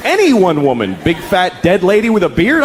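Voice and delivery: ordinary talk, nothing marked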